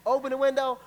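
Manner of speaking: high, loud call; acted window scream.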